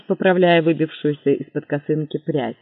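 plain reading voice

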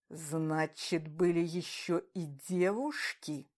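slow, quiet sinister drawl; ominous drawl. A narrator's reading. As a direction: draw it out menacingly. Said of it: "зловеще протянула леди Дот".

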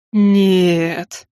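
drawn-out, doubtful male-character reply; disbelieving. A narrator's reading. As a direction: stretch it out in mild disbelief. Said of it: "недоверчиво отозвался он". (недоверчиво, протяжно)

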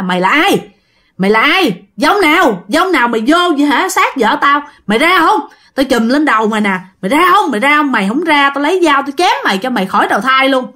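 acted husband cursing out an intruding ghost; scolding the spirit. Husband orders the spirit out of his wife's body, scolding. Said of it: "dượng vừa chùm mà vừa chửi".

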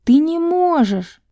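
high, slow, emphatic; forceful insistence. Acted. Enisa forcefully stopping Val from leaving. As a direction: press each word hard.

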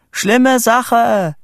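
high, loud alarmed shout. A narrator's reading. Boy alerting Vito by tin telephone, shouting. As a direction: yell bad news down the line. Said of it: "schrie ich ins Telefon".

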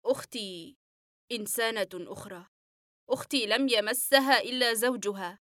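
patient speaks lovingly of his sister; tender smile. Acted. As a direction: speak of her with a gentle smile. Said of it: "وابتسامة فيها حنان كبير".

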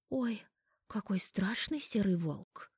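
high, slow mocking tease; mocking snort. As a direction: scoff at him playfully. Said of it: "фыркнула я".

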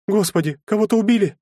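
put-on a startled young woman fears the worst; frightened girl. A narrator's reading. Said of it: "испугалась Анфиса".

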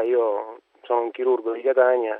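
hoarse voice from laryngitis; rough, hoarse laryngitis throat. Real, not acted. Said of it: "anch'io ho una laringite".

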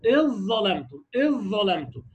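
إذ ظلمتم with the ذ merged fully into ظ; drawn-out recitation of إذ ظلمتم; idgham demo. Shown as a demonstration. Teacher demonstrating merger to students, slow recitation.

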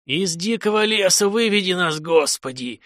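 a dying man's prayer, voice cracking; breaking voice. Acted. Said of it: "рвущимся голосом".

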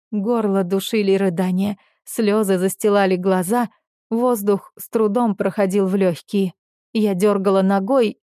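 ordinary delivery

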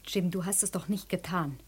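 whispered, pleading for denial; frightened whisper. Acted. Wife whispers to her husband, begging him to deny it. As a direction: breathe it out, afraid of the answer.

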